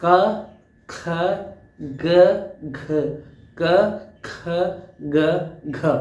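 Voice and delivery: isolated क ख ग घ, each clipped apart; slow teaching drill of क ख ग घ; demo k sounds. Shown as a demonstration. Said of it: "अपनी फिंगर रख लो जीभ के ऊपर".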